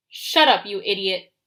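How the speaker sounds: loud, angry snarl at his brother; growled. A narrator's reading. Agrias tells his laughing twin to shut up, gruff growl. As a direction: bite the words off, annoyed. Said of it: "Agrias growled".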